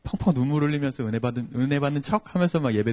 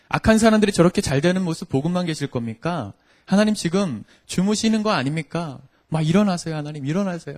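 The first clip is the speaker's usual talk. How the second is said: loud, raised voice demanding answers, building in urgency; defiant confrontation; 4 semitones higher, 5 dB louder than usual. Acted. David confronting God over the wicked prospering, defiant. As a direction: challenge God with insistent, higher-pitched protest. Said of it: "다윗이 하나님께 막 대드는 장면이 나옵니다".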